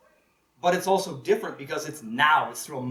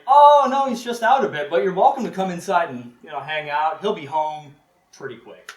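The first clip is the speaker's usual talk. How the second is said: sweet fake innocence; 7 dB louder than usual. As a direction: play it innocent and inviting. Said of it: "And Una's like".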